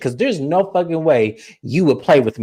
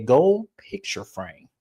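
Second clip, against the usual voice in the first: softer whispered punchline; hushed dramatic reveal; 3 semitones lower, 5 dB quieter, slower than usual. Acted. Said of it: "dramatic reveal".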